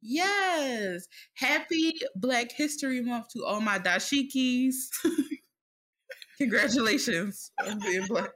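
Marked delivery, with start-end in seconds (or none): 1.3-8.3 hammed-up TV host greeting, a touch slow; Uncle Jesse host voice. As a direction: play it like a cheesy sitcom host welcoming the audience. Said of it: "you were giving me Uncle Jesse from, uh, from Full House".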